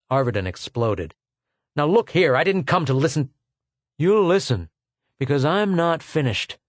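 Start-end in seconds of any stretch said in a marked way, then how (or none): 1.7-6.6 heated clash. Acted. Heated quarrel between men.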